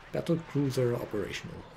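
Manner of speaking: lightly voiced StarCraft battlecruiser captain; a hint of the stern ship captain reporting in. Caster imitates the StarCraft battlecruiser with a light captain voice. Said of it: "battle cruiser from the original StarCraft would say".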